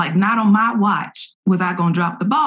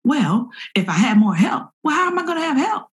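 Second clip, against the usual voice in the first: high, quickening retold inner argument; acted frustrated self-questioning; 6 semitones higher, faster than usual. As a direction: argue with yourself, pitch climbing, faster. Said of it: "in my head is this conversation".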